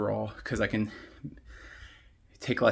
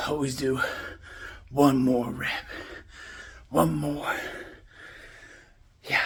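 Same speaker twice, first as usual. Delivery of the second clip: lifting weights; 2 semitones higher, 4 dB louder, slower than usual. Real, not acted. Counting reps while squatting.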